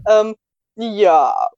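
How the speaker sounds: talking with food in mouth; words round a bite; chewing while talking. Real, not acted. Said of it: "Und ich esse gerade".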